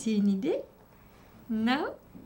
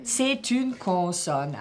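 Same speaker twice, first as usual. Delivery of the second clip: slow model; much slower than usual. Shown as a demonstration. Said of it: "repeating answer".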